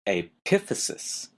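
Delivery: epiphysis, with "PIF" lifted and punched; second-syllable stress. Shown as a demonstration. Teacher introduces the next bone term, second-syllable stress. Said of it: "notice the stress is in an odd place".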